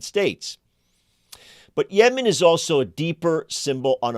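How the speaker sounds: emphatic presenter read, key words punched; deliberate phrasing with weighty pauses; scripted commentary read. Acted. Host lays out Yemen's war to listeners, scripted commentary read. Scripted opening monologue and guest introduction.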